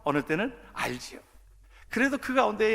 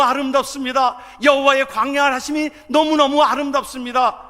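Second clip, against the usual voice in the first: loud, higher-pitched exultant preaching; full-force preaching; 6 semitones higher, 8 dB louder than usual. Real, not acted. Preacher exhorting the congregation to praise, loud and exultant. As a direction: raise the voice and proclaim praise.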